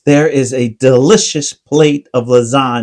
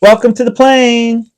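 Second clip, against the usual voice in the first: flight attendant voice; 7 semitones higher than usual. Acted. Flight attendant safety announcement.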